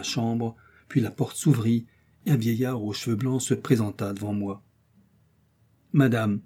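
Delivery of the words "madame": a hint of a stern old uncle; even and firm, barely raised; lightly voiced severe old man; calm but stern. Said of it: "d'une voix calme mais sévère".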